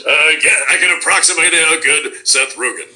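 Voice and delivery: light Seth Rogen voice; hint of Seth Rogen's delivery; Seth Rogen impression. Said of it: "Can you do a Seth Rogen?".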